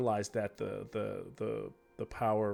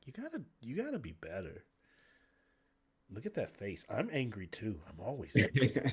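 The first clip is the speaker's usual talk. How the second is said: Burrfoot sympathizing. Acted. Ranger admitting her own anger to the hero, wry. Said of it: "Burrfoot kinda steps around and looks at you and goes".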